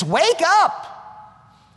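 high, drawn cry to a sleeper; rousing call. Acted. Acting out the prophet's call.

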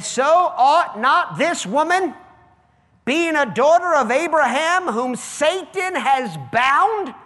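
slow, loud, lifted preaching; preaching Jesus's words. Acted. Pastor to congregation quoting Jesus, slow loud preaching. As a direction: proclaim each phrase deliberately.

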